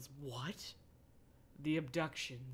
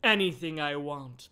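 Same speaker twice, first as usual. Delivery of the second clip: pausing for ellipses; 2 semitones lower than usual. Acted. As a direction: stretch it out, halting between phrases. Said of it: "that's why I'm pausing".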